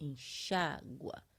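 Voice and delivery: middle syllable xá of enxágua stressed. Conjugating the verb enxaguar aloud: stress on xá. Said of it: "a sílaba mais forte está sendo aonde? No A e no I".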